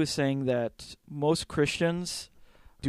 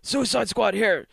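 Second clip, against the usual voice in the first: slow, lightly hammed-up battle cry; mock heroic shout; 8 semitones higher, 3 dB louder than usual. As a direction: announce like proud rebels. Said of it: "they're like".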